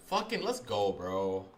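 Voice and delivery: hyped-up bro shout; pumped, loud bro celebration; gym bro. Real, not acted. Trading stream win celebration.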